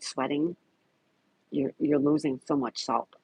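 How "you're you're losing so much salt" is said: talking through hiccups. Real, not acted. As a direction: speak while hiccupping. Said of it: "I got the hiccups".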